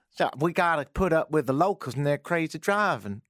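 mock Texan grumble; imitated Texan accent. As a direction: mimic her Texan complaint. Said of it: "I gotta put up with the locals".

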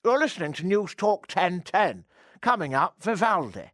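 plummy upper-class English radio announcer; posh English announcer. Pretend. Host imagining the show read in a posh English accent. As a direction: announce the station like a toff. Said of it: "Imagine if that was the show".

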